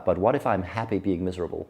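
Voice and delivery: a hint of a British accent, understated. Skeptical BBC radio interviewer questioning the guest, in a lightly imitated British accent. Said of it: "in this awesome British accent".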